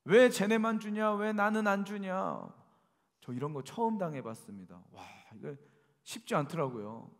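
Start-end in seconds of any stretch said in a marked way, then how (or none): 0.1-2.5 loud mock shout of a resentful crowd, slowing on the second question; imitating angry crowd. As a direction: yell it like the crowd outside demanding their share. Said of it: "막 소리를 지르고".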